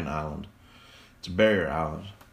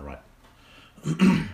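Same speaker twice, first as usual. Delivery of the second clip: surprised high question; 8 semitones higher, 6 dB louder than usual. Real, not acted. Questioning self about state.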